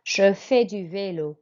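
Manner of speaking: "je fais du vélo" carefully repeated, silent S; careful French model for pupils; model French pronunciation. Shown as a demonstration. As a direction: repeat it clearly, "vélo" as vay-lo. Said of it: "And again".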